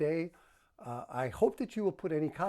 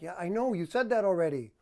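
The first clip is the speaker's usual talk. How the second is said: irritated, a bit louder, brushing her off; impatient brush-off; 3 semitones higher, 4 dB louder than usual. Shown as a demonstration. Husband cutting off his wife mid-complaint, annoyed. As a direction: snap back like she's repeating herself. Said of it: "or your tone like".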